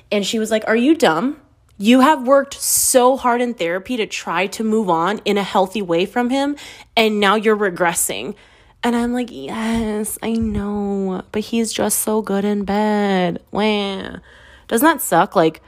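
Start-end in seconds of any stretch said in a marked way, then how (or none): 0.7-8.3 imitating an exasperated best friend; mock scolding. 9.3-14.2 pouty, drawn-out fake whimper; mock whining. Whiny reply to best friend.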